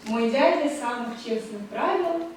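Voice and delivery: measured, slowed reading of a poem line; reciting verse in Russian. Shown as a demonstration. Lecturer reciting Pushkin to students, measured verse reading. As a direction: recite it as verse, a little slow. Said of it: "Je vous dis, dis en russe".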